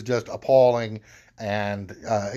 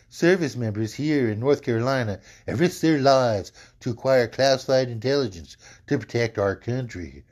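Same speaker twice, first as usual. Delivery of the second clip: put-on Alabama-accented Trump. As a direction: read it as Trump with a hint of Alabama. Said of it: "I made him from Alabama".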